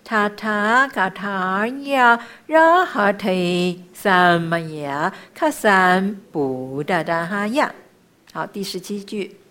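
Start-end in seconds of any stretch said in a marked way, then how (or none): 0.0-7.7 slow, drawn-out sacred syllables; measured chanting, easing off at the end; mantra recitation. Shown as a demonstration. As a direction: chant it with long held vowels.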